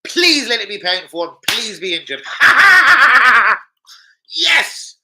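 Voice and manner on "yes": loud cackle then cheer; much higher, louder gloating laugh. Real, not acted. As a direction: laugh wickedly then celebrate. Gloating laugh at injury wish.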